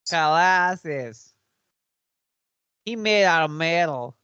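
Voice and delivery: mock Russian accent, drawn-out name. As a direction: put on a hammy Russian accent. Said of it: "I could do a Russian accent".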